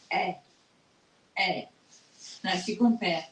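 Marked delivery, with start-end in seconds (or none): 0.1-1.6 eh as a French open è; accent grave sound. Shown as a demonstration. Teacher showing students the accent grave, open French vowel. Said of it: "The accent grave is".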